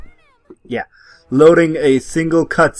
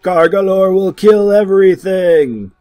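loud booming monster threat; 7 semitones higher, 5 dB louder than usual. Pretend. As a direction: roar it like a rampaging monster. Player voicing monster Gargalor.

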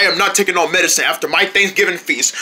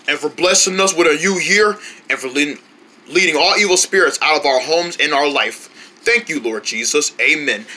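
lower, steady grace before the meal; prayer; 3 semitones lower than usual. Acted. Fish says grace before the Thanksgiving feast, low and steady. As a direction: pray it humbly.

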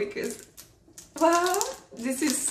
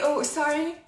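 usual speaking voice

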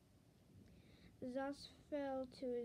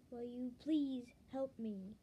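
mildly raised plea; yelled plea; 4 dB louder than usual. Acted. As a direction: yell for help, only slightly louder. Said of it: "I yelled".

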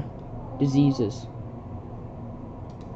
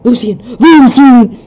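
loud, high shout of a name; calling out; 9 semitones higher, 15 dB louder, slower than usual. Acted. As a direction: yell across the room for him. Calling out in the scene.

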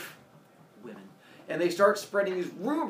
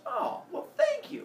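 high squeaky voice. Acted. Heracles voiced in retold story.

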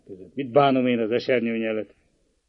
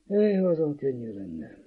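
sighing; 4 dB quieter, slower than usual. Acted. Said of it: "sóhajtott le Gyuri".

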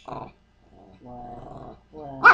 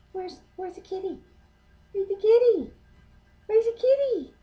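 much higher teasing singsong; 10 semitones higher, faster than usual. Real, not acted. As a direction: excite the pet with a high lilt. High teasing to pet.

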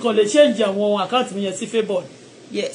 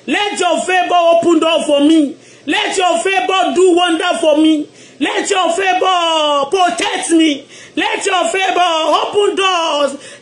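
drawn-out, raised prayer cry; fervent prayer; 3 semitones higher, slower than usual. Acted. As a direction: call out to God for favor. Fervent prayer at full force.

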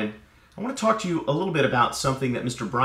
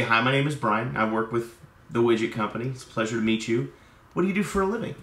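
softer, unhurried, interested hello; friendly, calm greeting; 3 semitones lower, 3 dB quieter, faster than usual. Shown as a demonstration. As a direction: greet them gently and ask about them. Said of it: "a better approach would be to come".

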